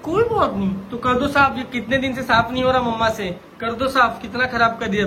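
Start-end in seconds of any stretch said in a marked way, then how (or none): 0.0-0.9 higher-pitched incredulous echo; mock echo. Parent echoing child's excuse about the mess, mock incredulous. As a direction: throw the excuse back, pitch falling.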